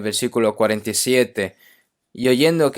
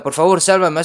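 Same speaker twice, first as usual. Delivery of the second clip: loud, higher cry for help; mock drowning shout; 5 semitones higher, 5 dB louder than usual. Drowning man yelling for rescue, hammed-up loud cry. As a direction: shout it like someone sinking in water. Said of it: "si no grita".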